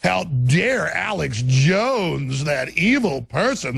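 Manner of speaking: slow, hammed-up horror; milk the fake shock; mock outrage. Parodying media outrage at himself.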